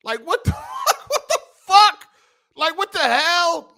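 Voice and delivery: breaking into high laughter mid-question; real incredulous laughing what the hell; laughing disbelief. Real, not acted. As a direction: laugh it out, can't believe it. Laughing at buyer backing out.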